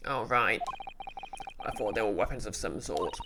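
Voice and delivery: low voice, puzzled; a deep-voiced young man thinking aloud; puzzled male sidekick. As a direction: sidekick voice, pitched low and wondering. Male character voice.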